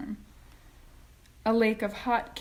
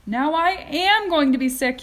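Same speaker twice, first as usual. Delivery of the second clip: higher, loud nauseous wail; yelled; 8 semitones higher, 10 dB louder than usual. A narrator's reading. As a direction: stress am as you wail. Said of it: "yelled Missus T V".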